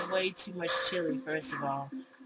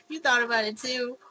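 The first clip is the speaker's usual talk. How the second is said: startled disbelief; 6 semitones higher, 8 dB louder than usual. Acted. Clone shocked by the confession.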